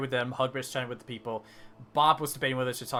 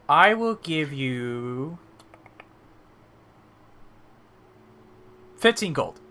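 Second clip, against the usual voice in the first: drawn-out words, then a louder price; deliberating offer; 2 semitones higher, 6 dB louder, much slower than usual. Acted. Barkeep prices the bear meat, deliberating offer. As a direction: stretch it out while working out the sum.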